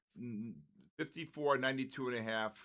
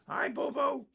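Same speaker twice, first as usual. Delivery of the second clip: put-on much higher, sing-song baby voice for the pet; 14 semitones higher, 5 dB louder than usual. Owner voicing his pet greeting daddy, high baby voice. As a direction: talk like the little one greeting daddy.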